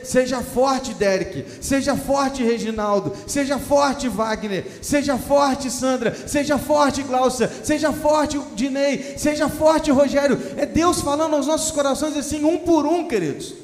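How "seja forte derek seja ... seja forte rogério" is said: rising call to each name, more forceful each time; building blessing. Pretend. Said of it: "Deus falando assim com você".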